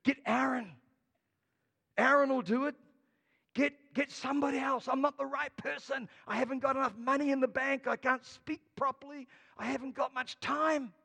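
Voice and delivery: a hint of Moses making excuses. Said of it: "but Moses said".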